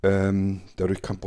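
talking around a candy in mouth; sucking a candy. Real, not acted. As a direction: speak while sucking a sweet. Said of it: "so ein bisschen am Kauen bin".

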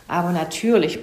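mildly acted bluster; lightly blustered retort. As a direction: burst out with a touch of gruff impatience. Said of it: "polterte Herr Fuchs los".

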